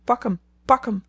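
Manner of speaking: lightly screeched parrot cry; screeching parrot. Retold or imitated. Amy imitating the terrified parrot's cry for Laurie, mock shriek. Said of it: "al schreeuwend".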